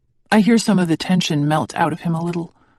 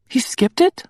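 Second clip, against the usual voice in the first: rising on it, high disbelief; incredulous he skipped it; surprised question; 8 semitones higher, slower than usual. A narrator's reading. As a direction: ask as if you can't believe it. Disbelieving question about the father.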